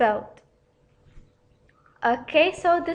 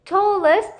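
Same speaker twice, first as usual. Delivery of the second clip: tallest said higher and louder, stress on the whole word; emphasized tallest; 4 semitones higher, 5 dB louder than usual. Shown as a demonstration. Teacher showing students the superlative form, stressing tallest. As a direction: land hard on tallest. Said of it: "The adjective tall will become".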